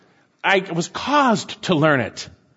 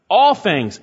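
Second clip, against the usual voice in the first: All pushed louder, then a falling close; emphatic stress; 2 semitones higher, 4 dB louder than usual. Shown as a demonstration. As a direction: lean hard on All. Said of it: "It's emphatic".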